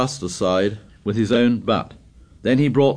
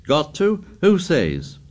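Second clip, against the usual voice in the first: scornful; 8 semitones higher, slower than usual. Acted. Jack's scornful retort.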